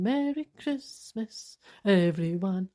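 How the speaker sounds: slow, dry merry Christmas; drawn out with mock cheer; sarcastic. Mocking the parcel complaints with slow, sarcastic cheer.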